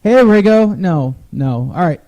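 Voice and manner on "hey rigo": higher, louder pretend hail; mock shout to a buddy; mock calling out. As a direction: call out the nickname in jest. Mock hailing by the nickname.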